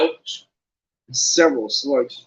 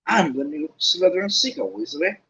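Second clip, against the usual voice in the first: smug; 3 semitones higher than usual. Acted. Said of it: "said Malfoy smugly".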